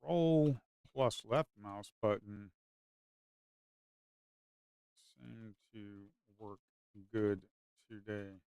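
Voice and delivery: very soft, half-swallowed muttering. Real, not acted. Trader quietly talking through a failed stop, muttering. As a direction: mumble it to yourself, barely audible.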